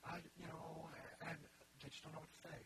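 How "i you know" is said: imitated hesitant, stumbling ramble; rambling. Voicing people who don't know what to say, rambling. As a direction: fumble along with repeats, imitating someone unsure. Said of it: "it's usually kind of rambling".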